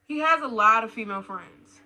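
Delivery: loud, punchy headline delivery; emphatic announcement. Real, not acted. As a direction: announce it loudly as a warning. Announces next red flag.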